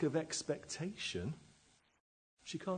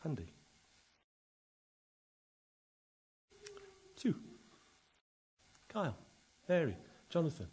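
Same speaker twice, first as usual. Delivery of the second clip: calling names; 4 semitones higher, 6 dB quieter, faster than usual. Acted. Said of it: "calls each of us by name".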